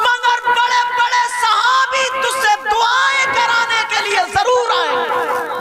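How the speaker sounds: very high, loud preacher's shout; preaching at full force. Acted. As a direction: thunder it over the crowd.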